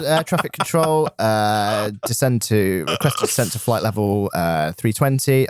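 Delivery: low, calm mock cockpit radio call; pilot radio voice. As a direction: pretend to radio the tower. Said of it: "I'm on a plane right now".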